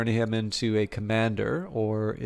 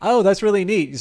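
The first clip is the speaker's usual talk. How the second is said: surprised; 9 semitones higher, 6 dB louder than usual. Real, not acted. Surprised by a game fact.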